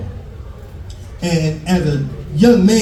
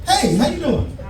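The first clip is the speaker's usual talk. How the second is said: laughing greeting; 9 semitones higher, 4 dB quieter than usual. Real, not acted. Greeting audience member, laughing.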